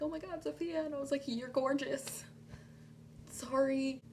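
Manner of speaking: fangirl squeal. Retold or imitated. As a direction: gush at her, overexcited. Fangirling at Sophia.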